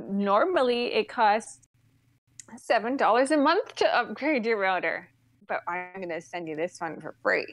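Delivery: imitating a technician, carefully spoken; measured "normally", each word set out properly; proper English. Retelling the router upgrade offer, in proper English. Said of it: "anything I say in proper English".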